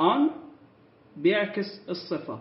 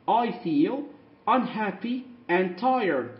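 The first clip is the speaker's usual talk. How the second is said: unhappy and tired drawn out slowly; slow teacher model; slow modelling; much slower than usual. Shown as a demonstration. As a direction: model the line slowly for learners. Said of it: "كلمة and طبعًا احنا ممكن نحذف الدي".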